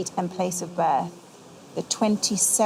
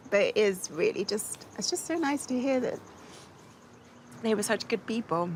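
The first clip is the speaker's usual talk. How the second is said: overwhelmed with gratitude, softening towards the end; crying for joy. Real, not acted. Granddaughter moved by hearing of her family, crying for joy. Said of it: "you're crying for joy".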